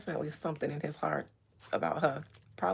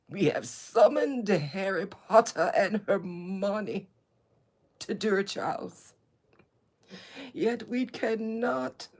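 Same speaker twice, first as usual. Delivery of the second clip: mock ancient royal voice. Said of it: "talk like this in such an ancient voice".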